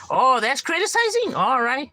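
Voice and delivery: high, slow, drawn-out mock surprise; sarcastic reply. The insulter shrugging off the call-out, high slow sarcasm. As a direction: sneer at being called out. Mocking reaction to criticism.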